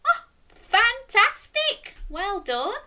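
high, loud, slow cheer; delighted praise. Real, not acted. Host praises children for joining in, delighted. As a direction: praise them to the skies.

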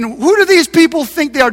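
sneering taunt at the builders; mock them like the enemy would. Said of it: "he's saying in a mocking voice".

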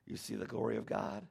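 softened voice, reassuring her; tender, knowing. Retold or imitated. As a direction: say it with a loving wink. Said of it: "He's saying tenderly".

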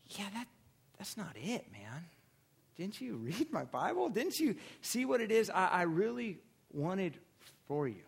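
quietly disappointed, like a patient father; God's voice. Retold or imitated. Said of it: "And have God go".

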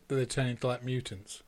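whispered, half to themselves; hushed whisper. Real, not acted. Friends wondering about Chernobyl mutants, whispering. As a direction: drop to a whisper on the word mutants.

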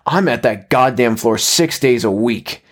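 slow, drawn-out shout, moderately restrained; angry shouting. Acted. Husband following his crawling wife, still shouting. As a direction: stretch out the complaint in held-back anger. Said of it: "he was still shouting".

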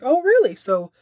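high, slow, teasing "oh really"; intrigued mock question. Father Blake slyly tests his son, high and slow. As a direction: dangle the offer like a sly father. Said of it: "He's like".

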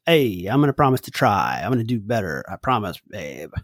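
low, trailing-off pretend promise; mock promise. Mock empty promise to partner.

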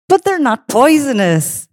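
high, slow, incredulous monk's voice; imitated monk, high-pitched and amused. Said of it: "They can barely speak. They're laughing so much".

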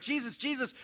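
frantic disciples. Retold or imitated. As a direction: urge Jesus to send the crowd away, in a rush. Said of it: "getting a little bit frantic".

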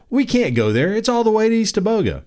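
put-on high, fast childish whine; exaggerated kid complaint. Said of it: "as in".

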